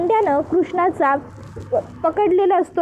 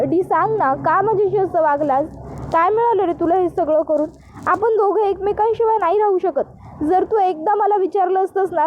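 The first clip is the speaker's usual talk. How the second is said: pleading lover; 3 semitones higher than usual. Acted. Pooja pleads with Dushyant to run away with her, heartbroken. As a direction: plead with him to come back, near tears.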